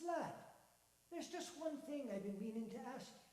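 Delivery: cheery Irish-tinged man; lightly Irish old man. Acted. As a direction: marvel at the lad's luck. Voices Donald.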